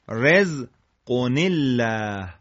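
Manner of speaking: slow رزقن الله as "rezqo-NEL-laah"; joined tanween. Shown as a demonstration. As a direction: lean on the linking "nel".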